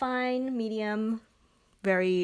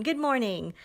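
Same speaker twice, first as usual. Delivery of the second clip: first good morning try; 4 semitones higher than usual. Shown as a demonstration. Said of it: "No, that doesn't work".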